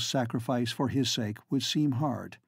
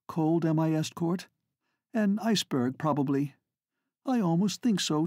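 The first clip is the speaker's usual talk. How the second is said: lightly voiced jesting lady; 2 semitones higher than usual. Flora jests to deflect Estcourt.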